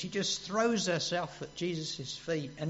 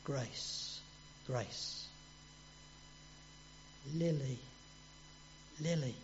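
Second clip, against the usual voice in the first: much softer, lower, tender calling of names; gentle, hushed voice of Jesus calling; 4 semitones lower, 12 dB quieter, slower than usual. Retold or imitated. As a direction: murmur each name like a loving call. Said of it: "have you ever heard Jesus say to you".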